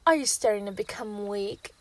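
a loud, mocking taunt. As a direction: gloat over the weakened hunter. Villain taunts weakened hunter.

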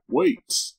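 high, startled stop; sudden surprise. Real, not acted. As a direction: catch yourself in alarm. Realising it's not his room.

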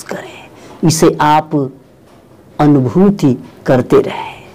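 measured meditation guide with long pauses; unhurried instruction, drawing out key words; guided meditation. Real, not acted. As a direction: lead listeners calmly through breathing, phrase by phrase.

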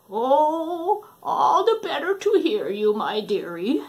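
high, sly fake granny; lightly voiced false grandma; wolf faking Granny. Wolf answering Red, high sly granny.

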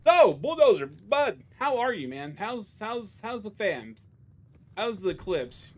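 cheery greeting. Real, not acted. Greeting viewer Bulldozer mid-rant, sudden cheer. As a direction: brighten up suddenly to greet him.

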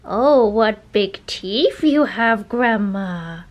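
slow Red Riding Hood line; drawn-out fairy tale voice; storybook voice. Pretend. Little Red Riding Hood play with dog.

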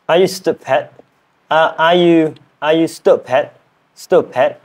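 careful learner's British "stupid"; British accent attempt. Shown as a demonstration. Learner practising a challenge sentence, British accent attempt. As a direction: try the question in British English. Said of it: "I am learning British accent".

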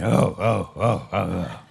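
low, excited oh-ohs; eager disciples. Retold or imitated. Peter and Andrew cheering on Jesus, low eager grunts. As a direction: grunt along eagerly like keen fishermen. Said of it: "I can imagine Peter and Andrew going".

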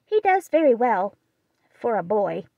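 ungracious. Acted. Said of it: "Meg's somewhat ungracious answer".

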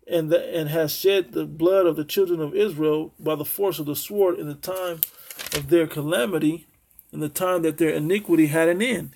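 measured, solemn Bible reading; scripture reading. Acted. Preacher reading Ezekiel to his listeners, solemn and measured. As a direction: read the prophecy like pronouncing judgment.

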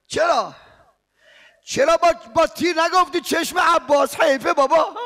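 loud, urgent mourning sermon, rising to shouts; impassioned preaching. Real, not acted. Preacher stirring the mourners, impassioned and loud. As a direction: preach at full force to the mourners. Preaching rowzeh at full force.

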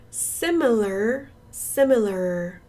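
SIMILAR drawn out, ending in "ler"; slow model of SIMILAR, no "ar" at the end. Shown as a demonstration. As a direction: stretch SIMILAR slowly into an "er" sound. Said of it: "er 발음이에요".

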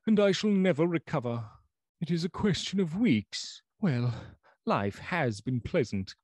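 high, strained voice of a doomed man; doomed old doctor. Acted. Lanyon's voice in the story.

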